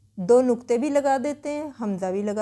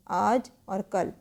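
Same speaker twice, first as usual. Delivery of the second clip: slow, separated words; 3 semitones lower, slower than usual. Shown as a demonstration. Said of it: "आज कल बिल्कुल अलग लिखना है इसको".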